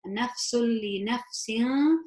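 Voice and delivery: slow recitation, nafsul merged into li without a hum; straight onto lam. Shown as a demonstration. Teacher repeating the merge, Nafsul going straight onto li. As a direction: double the l across Nafsul li, no gunna. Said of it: "It's like it's going straight onto that lam".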